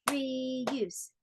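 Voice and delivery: "Reuse" in two long beats; measured, syllable-by-syllable "Reuse"; clapped-out syllables. Shown as a demonstration. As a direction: clap out "Reuse" as re, use. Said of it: "How many claps?".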